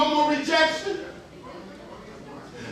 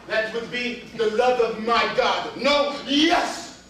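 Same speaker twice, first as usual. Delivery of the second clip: lightly voiced theatrical lover; measured grand declaration building to an exclamation; boastful Romeo; slower than usual. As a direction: declare it like a hammy romantic.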